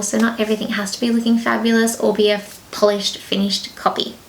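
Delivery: breathless, air running out; words trailing off on spent breath. Real, not acted. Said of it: "I am out of breath".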